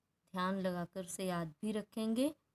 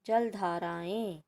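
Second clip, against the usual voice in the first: slow teaching model; slower than usual. Shown as a demonstration. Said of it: "जलधारा, जलधाराएं".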